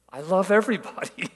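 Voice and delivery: high-pitched, all-embracing delight; playfully effusive enthusiasm; gushing welcome. Retold or imitated. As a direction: imitate someone who adores the whole world. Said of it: "Isaiah is just so welcoming".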